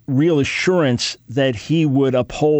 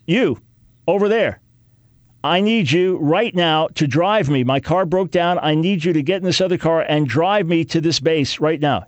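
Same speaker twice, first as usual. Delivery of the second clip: commanding general; 3 semitones higher than usual. Retold or imitated. General barking orders at private.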